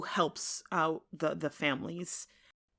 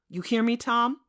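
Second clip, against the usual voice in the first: raised, higher demand ending on a rise; demanding question; 6 semitones higher, 6 dB louder than usual. Acted. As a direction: press him for an answer. John demands an answer.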